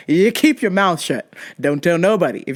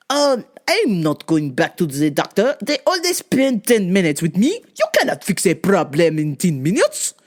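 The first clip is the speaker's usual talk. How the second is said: lightly voiced stubborn patient; mock indignant refusal; protesting customer; 3 semitones lower than usual. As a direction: imitate a customer grumbling about doctors. Voices Pierre refusing the doctor.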